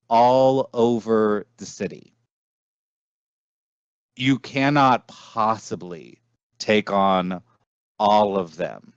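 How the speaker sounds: deliberate storyteller with dramatic pauses; game master narration. Acted. Game master showing players a city of devils, measured narration. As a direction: set the scene, letting key phrases hang.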